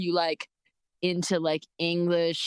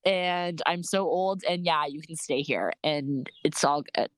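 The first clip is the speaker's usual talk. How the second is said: put-on old man voice; 4 semitones lower than usual. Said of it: "this guy was like".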